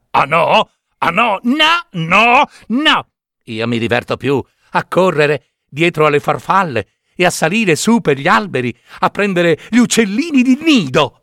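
put-on high, sneering boyish voice; mocking puppet. Pinocchio scoffs at the cricket in a high voice.

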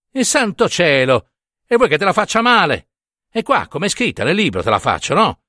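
più acuto, rapido, risentito; prete spazientito. Acted. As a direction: ribatti con stizza, quasi offeso. (al prete dà fastidio il dubbio della donna, tono stizzito)

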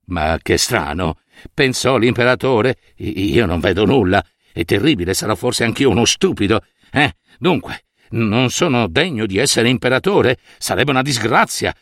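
low, worried emperor thinking aloud; anxious emperor. Acted. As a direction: mutter the emperor's secret panic. Emperor's anxious inner thoughts. (imperatore che pensa, in ansia)

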